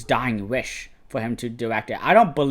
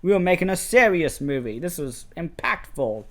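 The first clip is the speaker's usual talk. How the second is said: higher-pitched mock protest; indignant director; 6 semitones higher than usual. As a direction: lightly mimic a director insisting his film is serious. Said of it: "waves down the con and it's like".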